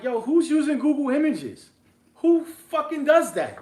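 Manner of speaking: loud, high-pitched disbelief; incredulous outburst. Retold or imitated. Investor retelling his reaction to the cat, incredulous outburst. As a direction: demand it in loud, high astonishment.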